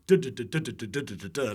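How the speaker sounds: rhythmic run of duh-duh syllables; imitated alliteration rhythm. Mimicking a comedian's alliteration to the host, rhythmic duh-duh patter. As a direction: tick out a repeating pattern in nonsense syllables. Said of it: "like, alliteration".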